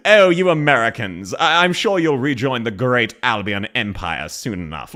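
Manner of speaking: snooty British. Retold or imitated. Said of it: "someone saying".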